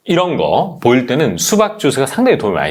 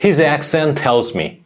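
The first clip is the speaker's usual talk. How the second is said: slow demo; much slower than usual. Shown as a demonstration. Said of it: "한번 해볼까?".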